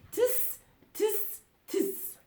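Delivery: high-pitched monkey tutting; cheeky storybook tsks; mimicking monkeys. A narrator's reading. Monkeys copying the stamping peddler, teasing tuts. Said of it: "stamped their feet back at him and said".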